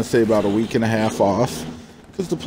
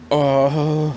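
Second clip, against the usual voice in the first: long, higher voiced exhale; exaggerated breath out; 4 semitones higher than usual. Worker told by boss to breathe deep, imitated long exhale. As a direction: let out a drawn-out mock calming breath. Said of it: "deep breaths in and out".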